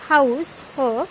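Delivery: house with an audible h, then her as the bare sound; sounded initial H. Shown as a demonstration. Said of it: "pronounced like house".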